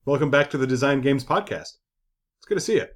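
put-on radio host greeting; a touch of on-air host polish. Host welcoming co-host back to the podcast, mock radio voice. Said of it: "Why am I talking like this?".

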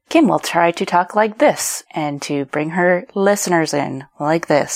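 lilting swoops on key words; varied tone. Shown as a demonstration. Podcaster showing how a host varies tone to hold listeners, lilting and artificial. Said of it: "I'm doing that artificially".

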